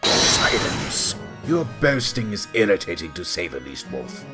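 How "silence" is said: loud courtroom order; commanding shout. Acted. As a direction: shout down the whole room as judge. Judge orders boaster quiet.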